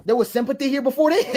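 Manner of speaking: chuckling while speaking; laughing. Real, not acted. Amused by a viewer's question, laughing. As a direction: talk through a laugh. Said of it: "laughing at the question".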